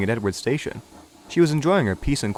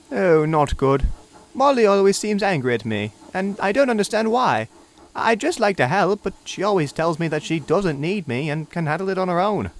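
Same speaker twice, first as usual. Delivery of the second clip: put-on higher, earnest young engine; puzzled Neville; 7 semitones higher than usual. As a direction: plead confusedly.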